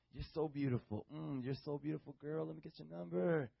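sweet nothings. Retold or imitated. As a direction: purr it like a sly charmer. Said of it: "whisper sweet nothings to your ears".

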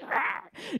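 quiet, raspy attempt at a roar; small mock roar; imitated lion roar. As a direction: play a little lion trying to roar. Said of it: "he tries to roar at the hyenas".

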